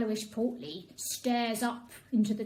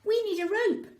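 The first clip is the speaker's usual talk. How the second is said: higher, louder announcement; proud little announcement; announcing; 9 semitones higher, 6 dB louder than usual. A narrator's reading. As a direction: declare it to the team. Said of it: "Mutt announces".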